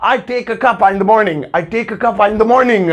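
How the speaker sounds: very slow, word by word; slow teaching read; slow model sentence. Shown as a demonstration. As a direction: spell it out slowly. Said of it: "इसकी जगह वो बोलेंगे".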